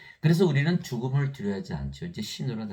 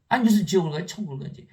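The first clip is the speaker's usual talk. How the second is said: indignant retort; 7 semitones higher, 7 dB louder, faster than usual. Retold or imitated. Retold reply to crying widow.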